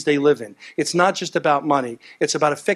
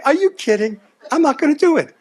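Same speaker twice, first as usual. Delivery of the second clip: incredulous protest; 11 semitones higher than usual. Retold or imitated. Arguing with border officials.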